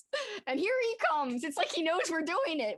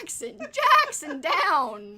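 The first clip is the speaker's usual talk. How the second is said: calling the dog; 4 dB louder, much slower than usual. Real, not acted. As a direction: call his name out firmly, stretching it. Calling the jumping dog to stop.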